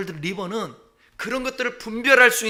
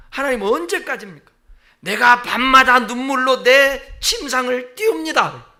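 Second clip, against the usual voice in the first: a higher, demanding plea to God; arguing plea; 5 semitones higher, 5 dB louder than usual. Acted. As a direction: press God hard, almost arguing. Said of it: "이건 따지는 거예요". (하나님께 따지듯 높게 호소)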